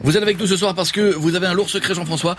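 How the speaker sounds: Jean-Luc Delarue. Acted. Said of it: "Jean-Luc".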